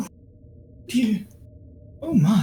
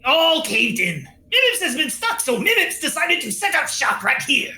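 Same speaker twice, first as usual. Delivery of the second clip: Mimips. Acted. Trapped merchant explaining how he got stuck, creature voice. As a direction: tell it in an animated critter voice.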